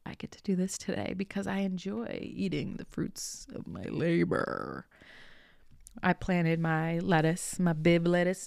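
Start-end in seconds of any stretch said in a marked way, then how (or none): 0.1-4.9 slow, soft, acted-out relish; savouring gratitude. Gardener acting out the better mindset, savouring gratitude. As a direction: draw it out with grateful enjoyment, trailing softly. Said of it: "Instead of".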